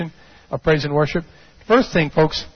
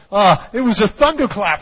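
usual speaking voice

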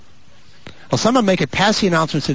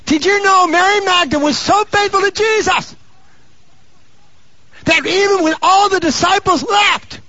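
high, driving sermon cry; full-force preaching; 4 dB louder than usual. Real, not acted. Preacher tells congregation of Mary Magdalene's faithfulness, impassioned preaching. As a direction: proclaim it high and sustained to the congregation.

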